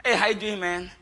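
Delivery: put-on jokey, casual American accent. God greeting Adam like a pal, American accent. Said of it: "God spoke in American accent".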